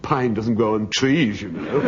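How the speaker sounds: mildly crushing put-down; crushing retort. Retold or imitated. Husband to wife about the pine door, crushing retort. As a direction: deliver it as the final word, understated. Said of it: "I said crushingly".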